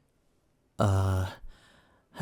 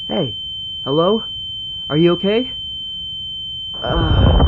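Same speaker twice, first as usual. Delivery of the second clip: loud, higher, worried calls; urgent calling out; 8 dB louder than usual. Acted. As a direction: shout to check they're alive. Calling to a fallen customer.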